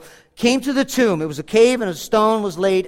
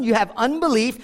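ordinary talk, nothing marked

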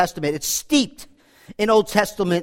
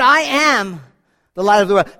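a quicker, louder declaration; ringing proclamation; 4 dB louder than usual. Acted. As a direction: proclaim it out loud to the crowd.

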